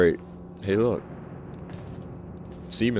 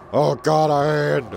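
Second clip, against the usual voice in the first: startled; 9 semitones higher, 6 dB louder, slower than usual. Real, not acted. Finds a severed hand in game.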